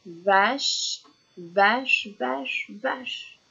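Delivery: "vache" four times in separate beats; evenly spaced "vache" repeats; whole word repeated. Shown as a demonstration. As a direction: drill "vache" whole for a learner. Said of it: "je répète le mot vache en entier".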